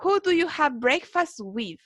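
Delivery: measured, deliberate English question; slow model reading. Shown as a demonstration. Teacher quoting the question before explaining prepositions, slow. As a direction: lay out each word for the learners. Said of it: "Vamos, entonces dice".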